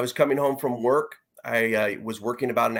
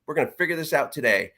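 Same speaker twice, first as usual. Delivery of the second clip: frustrated resolve; 4 semitones higher than usual. Retold or imitated. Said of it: "just frustrated himself with everything".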